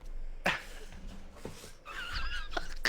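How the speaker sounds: high, wheezing laugh. Real, not acted. Host after his rant on his channel, wheezy laughing. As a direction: laugh with hardly any voice.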